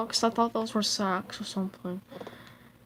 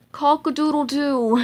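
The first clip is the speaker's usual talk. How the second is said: rooster crow; 4 semitones higher, 6 dB louder than usual. Pretend. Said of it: "stupid animal impressions".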